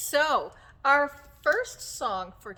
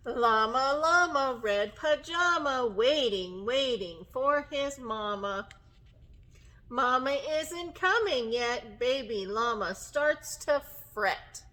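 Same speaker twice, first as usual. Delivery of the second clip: measured, rhythmic rhyme reading; storybook reading to children; 4 dB louder, slower than usual. Acted. Teacher reads a bedtime tale to children, gentle storytime reading. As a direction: read the rhyme gently, stretching the last words.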